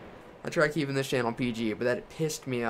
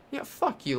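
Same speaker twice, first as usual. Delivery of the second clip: angry jeer; 13 semitones higher than usual. Real, not acted. Cursing Larson after being passed.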